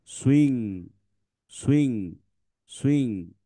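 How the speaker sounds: সুইং said as one smooth word, স gliding into ইং; blended word drill. Shown as a demonstration. Teacher modelling the blended word for pupils. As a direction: repeat সুইং clearly for the class. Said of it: "তাহলে কি হলো".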